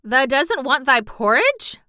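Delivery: can't believe her ears; Yorkshire maid amazed at refused porridge; incredulous. A narrator's reading. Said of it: "Martha exclaimed incredulously".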